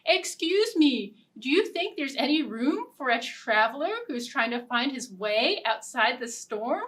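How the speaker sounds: politest voice. Acted. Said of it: "in his politest voice".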